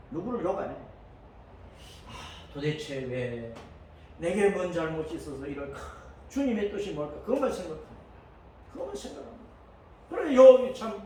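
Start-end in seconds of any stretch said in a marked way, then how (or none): 2.1-7.1 quiet bewildered prayer. Acted. 8.7-9.4 whispered. Shown as a demonstration. Preacher hushes the congregation, whispering. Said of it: "same words whispered".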